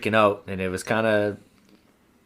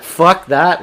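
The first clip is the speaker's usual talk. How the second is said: laughing refusal; 7 semitones higher, 9 dB louder than usual. Retold or imitated. Refusing to ration bug spray.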